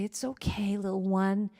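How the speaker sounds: soft, hushed, tender murmur; gentle, quiet reassurance; soothing a baby. Acted. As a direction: comfort a little one, almost whispering. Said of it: "what would you do? You would rock it".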